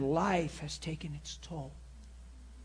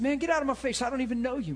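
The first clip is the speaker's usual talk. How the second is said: raised, higher-pitched brush-off; retold yell; 9 semitones higher, 5 dB louder, faster than usual. Man rebuffing a stranger who offers prayer, retold yell. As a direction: imitate an angry man yelling, short of full force. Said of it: "Yelled at me".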